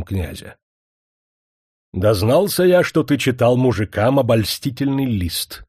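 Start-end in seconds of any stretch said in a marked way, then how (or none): 1.9-5.6 грозно. Acted. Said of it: "начал князь".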